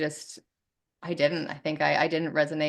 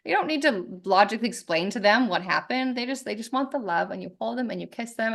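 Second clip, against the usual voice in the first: soothing parent; 5 semitones higher than usual. Retold or imitated. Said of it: "you're like".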